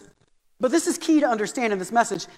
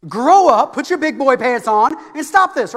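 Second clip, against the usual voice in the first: loud, punched "grow up"; mock scolding of a whining kid; exasperated dad; 5 dB louder than usual. Dad fed up with his son's tattling, exasperated.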